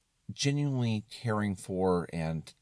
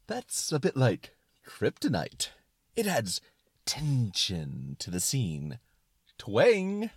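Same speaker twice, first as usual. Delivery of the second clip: excited suspenders; 2 semitones higher, slower than usual. Acted. Suspenders of disbelief explaining the kryptonite, excited. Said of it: "talk in an excited tone".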